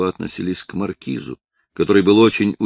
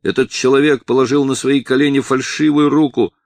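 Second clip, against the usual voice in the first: a touch of tears in a raised, higher shout; crying shout; 6 semitones higher, 4 dB louder than usual. A narrator's reading. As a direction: plead loudly while hurting. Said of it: "закричал Жуан плачущим голосом". (крик сквозь лёгкие слёзы)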